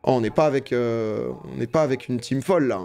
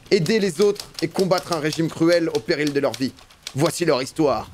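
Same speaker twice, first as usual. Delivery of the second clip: a lightly raised, steady storytelling voice; story narration; 2 semitones higher than usual. Acted. Streamer narrating the resistance oath, light storytelling. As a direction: tell the oath scene like a narrator. Reads the game's story text.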